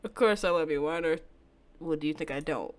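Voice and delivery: a hint of a hushed, menacing lover; lightly voiced calm stalker, soothing and sinister. Takuya voiced again.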